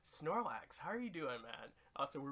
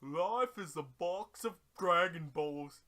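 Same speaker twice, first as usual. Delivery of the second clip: lightly voiced Gump-style musing; Forrest Gump Dende; 2 semitones higher, 6 dB louder than usual. Dende parodying Forrest Gump line.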